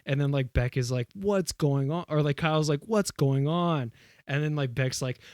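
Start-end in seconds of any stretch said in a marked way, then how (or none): 1.1-2.1 raised-pitch, hammed-up question; mock bewilderment. Retelling Beck's reaction in the sketch, mock bewildered. Sketch character demands to know. 2.8-3.9 slow, drawn-out dramatic question; mock bewilderment. Retelling Kyle's reaction in the sketch, slowly mock bewildered. Same line given to Kyle.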